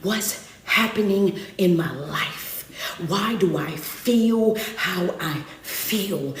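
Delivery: slow, soft, bewildered musing; troubled inner voice. Retold or imitated. Preacher voicing a struggling listener's thoughts, slow and soft. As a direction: drag it out like someone lost and hurting.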